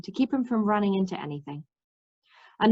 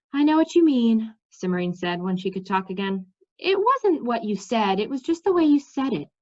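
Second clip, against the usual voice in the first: lightly voiced determined young woman. Cimmerian to Mendembar, lightly voiced and determined. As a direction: brush off the danger lightly.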